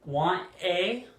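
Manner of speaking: WANT A as two separate words; careful, unreduced "want a"; full careful form. Shown as a demonstration. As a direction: pronounce "want a" fully, each word distinct. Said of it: "wanna is a reduction of".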